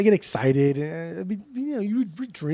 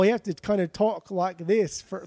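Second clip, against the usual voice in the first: bad British accent attempt; 4 semitones higher than usual. Shown as a demonstration. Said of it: "really bad Australian".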